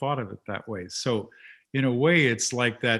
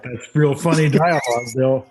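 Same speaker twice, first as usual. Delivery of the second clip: retold compliment; 3 semitones higher, 7 dB louder than usual. Someone praising Bill's funny dialogue, louder mock praise. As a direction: praise it loudly, as a quote. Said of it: "I don't mean laughed like".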